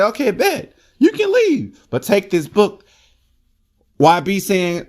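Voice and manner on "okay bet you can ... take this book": put-on much higher, squeaky old grandma. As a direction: put on a high granny voice to tease. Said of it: "So the grandma say".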